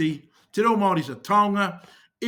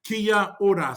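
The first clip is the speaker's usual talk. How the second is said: "kia ora" in two separate words; careful demonstration; slower than usual. Shown as a demonstration. Teacher repeating a greeting for beginners, "kia ora" carefully spaced. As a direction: sound out "kia ora" for learners. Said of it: "read these words in yellow as if they are English".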